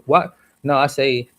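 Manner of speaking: usual speaking voice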